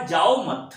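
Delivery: "जाओ मत" slow and loud as one phrase, then stop; मत के बाद विराम. Shown as a demonstration. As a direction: stop firmly right after "मत". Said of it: "यहां पे कामा है". ("जाओ मत" धीमे, ज़ोर से, फिर ठहराव)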